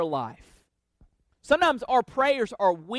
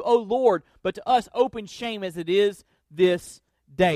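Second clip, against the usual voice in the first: prayer reading; 2 semitones lower than usual. Acted. Preacher reading Daniel's prayer to his congregation, fervently. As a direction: pray it as Daniel would, humbly.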